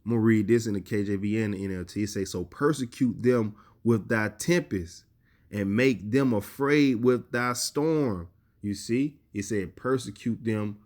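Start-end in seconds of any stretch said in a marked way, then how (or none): 2.3-5.0 slow, drawn-out scripture line; solemn reading. Acted. Preacher reading the verse aloud, slow and solemn. 5.5-8.3 slow, drawn-out scripture line; solemn reading. Acted. Preacher reading the verse aloud, slow and solemn.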